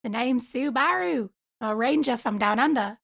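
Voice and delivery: playful Australian ranger introduction; Australian accent. Pretend. Introducing Sue Baru the ranger, mock Australian accent. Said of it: "do an Australian accent".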